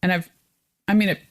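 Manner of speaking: talking through hiccups; hiccuping mid sentence. Real, not acted. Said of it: "I have the hiccups all of a sudden".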